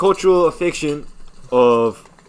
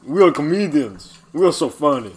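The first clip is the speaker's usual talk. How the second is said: lightly put-on Ukrainian accent, broken English; mock Ukrainian accent, proud and silly. Podcaster explaining the joke in a mock Ukrainian accent. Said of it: "We talk in this accent".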